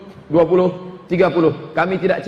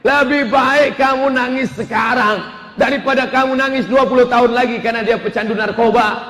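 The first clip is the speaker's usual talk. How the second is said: firm father; 5 semitones higher than usual. Retold or imitated. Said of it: "akhirnya si bapak tegas".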